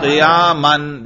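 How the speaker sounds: "قیاماً" ending clearly in -an; nasb ending. Shown as a demonstration. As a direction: draw out "قیاماً" slowly, finishing on an "an" sound. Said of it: "سننے سے ہی پتہ چل گیا آپ نصب پڑھ رہے ہیں". ("قیاماً" نصب کے ساتھ، آخر میں "اَن")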